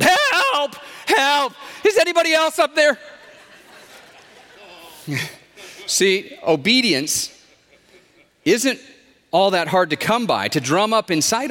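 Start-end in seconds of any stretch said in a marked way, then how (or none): 0.0-7.3 desperate yell. A narrator's reading. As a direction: holler upward past the first voice. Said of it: "And finally, Doug yelled".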